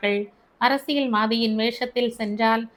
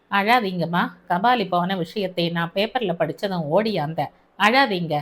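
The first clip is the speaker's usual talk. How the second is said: lower, steady man's voice; Albert, calm officer; 4 semitones lower than usual. Acted. Albert comforting the grieving mother, low and steady. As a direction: soothe her in a low, even tone.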